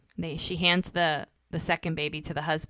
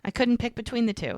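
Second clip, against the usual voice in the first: higher, lightly voiced woman's reply; voicing the female teacher; 6 semitones higher than usual. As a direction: mimic her breezy self-explanation, pitched up.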